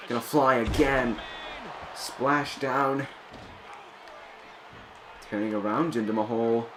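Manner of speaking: wrestling commentator. Acted. Calls the match play-by-play.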